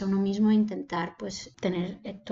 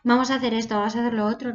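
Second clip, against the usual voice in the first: louder, brisk and eager; lively urging; 4 dB louder, much faster than usual. Shown as a demonstration. Speaker showing how eager words sound, louder. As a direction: sound keen to get going. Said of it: "sino es cómo lo dices".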